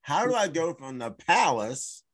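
a touch of comic bewilderment, stretching "how"; pleading biblical character. Acted. Moses asks the Lord how he ended up herding sheep, comic plea. Imagined prophet pleading with God.

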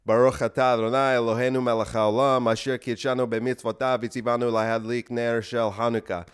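rote Hebrew blessing, run on evenly; mock-earnest Hebrew prayer recitation; recited prayer. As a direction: recite it like a memorized bedtime prayer. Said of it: "recite a lot of prayers".

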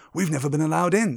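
put-on mildly envious boy; a touch of longing envy. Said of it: "said Ron enviously".

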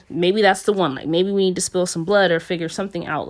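mildly acted agitation; retold agitated urging. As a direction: push it out forcefully, imitating a worked-up man. Retold agitated officer urging violence.

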